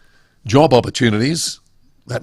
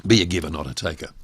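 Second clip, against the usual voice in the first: Be a giver, not a taker run through fast and lower; quick lower restatement; 5 semitones lower, faster than usual. Shown as a demonstration. Speaker repeating his rule before explaining, quick and low. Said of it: "What does that actually mean?".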